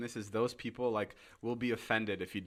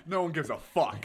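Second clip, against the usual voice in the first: laughing mock blunt; 6 semitones higher, 7 dB louder than usual. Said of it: "he goes".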